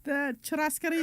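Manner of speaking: high Argentine accent on churrascaria. Shown as a demonstration. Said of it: "Do it again".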